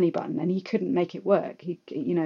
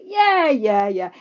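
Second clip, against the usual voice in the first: high, eager mock agreement; eager yes; 5 semitones higher, 6 dB louder, much slower than usual. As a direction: gush a hammed-up yes.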